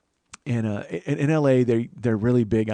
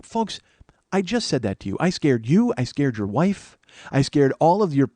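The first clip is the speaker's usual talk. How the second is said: rising, louder mock tirade; escalating indignant rant; 4 semitones higher, 3 dB louder than usual. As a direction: build into a shouted rant at the guy. Ranting at the man in line.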